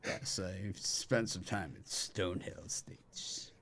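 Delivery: slow, hushed whisper as if reminiscing; mock wistful whisper. Host whispers a joke about a wine estate. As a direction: breathe it like a fond secret.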